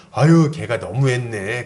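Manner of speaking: slow, drawn-out mock commiseration; indulgent sympathy. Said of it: "그렇게 받아주는 거예요". (다 받아주듯 길게 늘여 위로하는 흉내)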